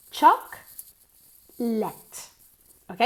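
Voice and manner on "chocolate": "Chocolate" with loud, high CHOC, pause, let; two separate syllables. Shown as a demonstration. Teacher drills chocolate once more, two spaced syllables. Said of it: "Dos sílabas".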